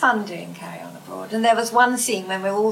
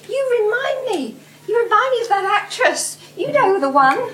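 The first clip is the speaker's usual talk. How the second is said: high, eager chatter; excited fan; 10 semitones higher, 4 dB louder than usual. Retold or imitated. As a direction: gush like a starstruck stranger. Lady voiced excitedly.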